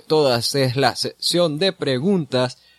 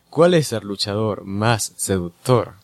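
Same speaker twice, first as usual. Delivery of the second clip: sensual seductive voice; 3 semitones lower, slower than usual. Pretend. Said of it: "leer las preguntas con voz sensual y seductora".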